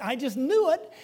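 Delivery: a touch of sulky complaint; mild complaining. Retold or imitated. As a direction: grumble it like a reluctant prophet. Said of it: "he presents it to God as a complaint".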